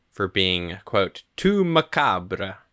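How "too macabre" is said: slow, drawn-out horror-host voice; Bill Hader doing Vincent Price; Vincent Price impression. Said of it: "Bill Hader as Vincent Price accent".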